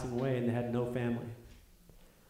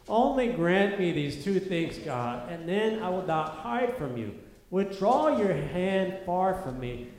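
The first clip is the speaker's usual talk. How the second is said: slow, higher, pleading whine; whiny voice; 3 semitones higher, slower than usual. Pretend. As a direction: whine it like a suffering man. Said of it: "we need to do our whiny voices".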